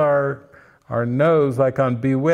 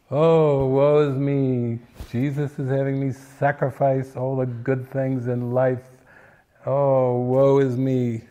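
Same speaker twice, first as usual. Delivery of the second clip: hammed-up woe-is-me wail, drawn out; mock dramatic lament. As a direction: play the self-pitying martyr, half in jest. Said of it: "like, a forty-year dramatic".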